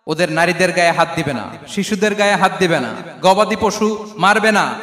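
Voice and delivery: firm, forceful retold orders; commanding preacher voicing a proclamation; battlefield announcement. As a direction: lay down each prohibition emphatically. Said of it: "যুদ্ধের ময়দানে ঘোষণা দিতেন".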